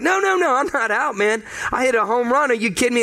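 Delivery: mock outraged ballplayer, pitch jumping high; a player arguing he's not out, voice climbing; protesting player. Player to the umpire, in mock outrage.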